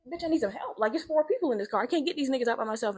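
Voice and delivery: high-pitched, exasperated rant at normal volume; spazzing. Retold or imitated. Rescuer to bystanders about four people trapped, exasperated spazzing. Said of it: "like, literally spazzing".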